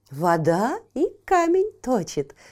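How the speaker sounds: proud, swooping, declaring delivery. A water droplet answers a doubting raccoon: proud declaration. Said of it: "гордо заявила капелька".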